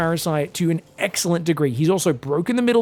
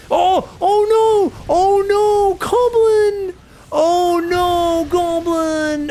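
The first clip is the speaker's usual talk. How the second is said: much higher, louder cries of alarm; panicked shout; 11 semitones higher, 4 dB louder, much slower than usual. Real, not acted. Caster yelling in alarm at the collapsing army, high and loud. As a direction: yell as the army falls apart.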